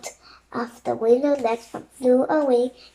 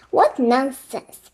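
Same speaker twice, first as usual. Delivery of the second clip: croaking; 4 dB louder, slower than usual. Acted. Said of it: "croaked the Raven King".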